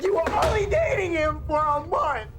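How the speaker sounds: high, fast and pleading; exasperated protest. Acted. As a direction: blurt it out, voice cracking.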